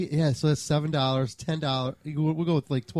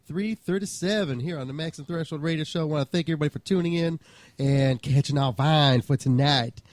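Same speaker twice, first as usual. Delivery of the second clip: put-on Georgia accent. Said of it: "that was my Georgia accent".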